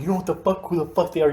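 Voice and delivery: retold pissed-off. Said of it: "He was pissed".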